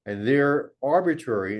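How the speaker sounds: a light lift on "arbitrary"; stress on arbitrary. Real, not acted. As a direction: lean a little on the word "arbitrary". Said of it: "I emphasize the word arbitrary".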